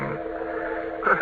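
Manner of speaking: ordinary delivery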